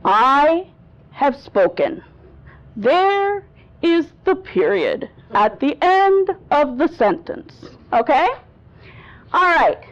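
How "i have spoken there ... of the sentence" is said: deliberate pauses, "spoken" and "sentence" falling to a full stop; authoritative period. Shown as a demonstration. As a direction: pronounce it like a ruling, landing down on "spoken" and "sentence". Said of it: "that projects authority".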